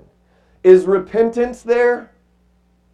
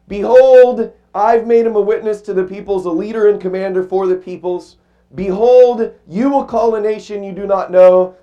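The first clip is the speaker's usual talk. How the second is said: scripture proclamation. Acted. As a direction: proclaim the prophecy. Preacher reading scripture.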